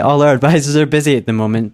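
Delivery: attempted Welsh call-centre accent; lightly put-on Welsh lilt for a recorded hold message. Shown as a demonstration. Call-centre worker demonstrating the hold message, attempted Welsh accent. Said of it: "as a Welsh".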